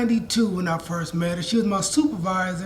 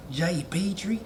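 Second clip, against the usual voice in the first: attempted Texas drawl, softer; lightly imitated Texas accent; 2 semitones lower, 5 dB quieter than usual. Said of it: "I'm trying to do my Texas accent".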